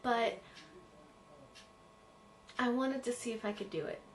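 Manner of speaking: quiet. Real, not acted. Quiet confessional in old video.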